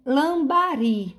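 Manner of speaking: lambari with a long, high BA and falling RI; stress on final syllable. Shown as a demonstration. Teacher sounding out lambari for the class, drawn-out final stress. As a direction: say lambari slowly, leaning on the last syllables. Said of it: "a gente demora mais".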